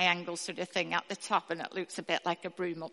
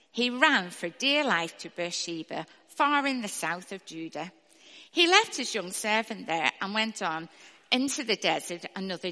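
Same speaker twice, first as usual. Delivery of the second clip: clear, steady Bible reading; scripture reading; 3 dB louder than usual. A narrator's reading. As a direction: read it out to the church. Reads scripture aloud to congregation.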